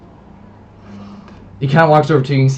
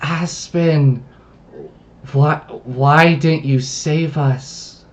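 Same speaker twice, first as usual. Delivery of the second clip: put-on slow, slightly raised girlish plea; lightly voiced girl; 3 semitones higher, much slower than usual. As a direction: plead slowly as the lost girl, understated. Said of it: "You can see the girl now".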